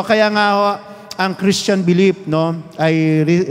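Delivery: ordinary talk, nothing marked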